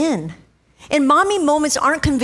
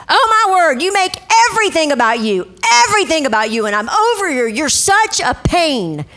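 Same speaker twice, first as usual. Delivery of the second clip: angry screaming mom; 3 semitones higher than usual. Retold or imitated. Mom at the airport yelling at her son, mock angry shout. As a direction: snap it out like a fed-up mother in public. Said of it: "She's screaming it".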